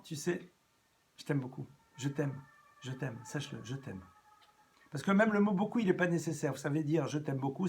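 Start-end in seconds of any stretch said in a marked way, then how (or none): 0.0-4.0 tender. Shown as a demonstration. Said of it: "dire à un enfant".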